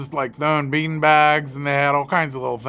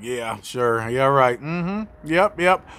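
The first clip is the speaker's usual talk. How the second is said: sarcastic clerk; 4 semitones lower, slower than usual. Retold or imitated. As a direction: brush him off, unconvinced. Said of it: "the woman's like".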